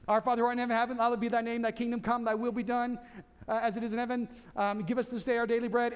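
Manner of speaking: reciting the Lord's Prayer aloud; prayer recitation. Acted. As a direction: pray it like a congregation reciting.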